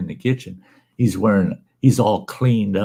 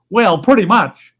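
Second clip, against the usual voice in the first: much higher, louder sheepish reply; sheepish patient; 11 semitones higher, 6 dB louder than usual. Acted. Patient admitting to the doctor, high and sheepish. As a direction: squeak it out guiltily.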